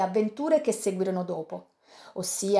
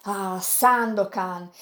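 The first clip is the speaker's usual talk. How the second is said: reproachful; much slower than usual. Acted. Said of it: "con tono di rimprovero".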